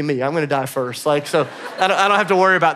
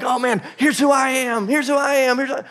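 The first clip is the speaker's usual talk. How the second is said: higher-pitched mock self-discovery; self-important exclamation; 7 semitones higher than usual. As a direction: imitate someone marveling at themselves. Mimics self-absorbed people talking.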